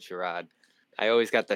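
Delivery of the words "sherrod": "Sherrod" in a thick Boston accent; broad Boston "Sherrod" with a dropped r. Shown as a demonstration. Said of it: "your name really brings out my Boston accent".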